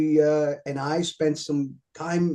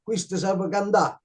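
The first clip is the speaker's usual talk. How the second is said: put-on old Italian man's accent, a touch higher; 4 semitones higher than usual. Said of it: "you know, in his Italian accent".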